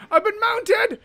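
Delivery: high, loud panicked cry; alarmed shout. Real, not acted. Monster mounts him.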